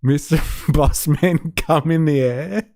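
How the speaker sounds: "come in the air" said through a laugh; laughing mishearing. Shown as a demonstration. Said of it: "it sounds like".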